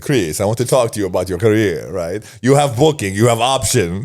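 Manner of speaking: put-on Italian accent. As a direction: play the Italian booker with a mild Italian accent. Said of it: "This Italian accent".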